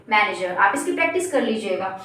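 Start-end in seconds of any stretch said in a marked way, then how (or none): 0.1-0.5 "मैनेजर" falling, with no final r; correct manager. Shown as a demonstration. Teacher drilling learners, r-less manager. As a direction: let "मैनेजर" drop onto a schwa. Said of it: "क्या बोलेंगे?".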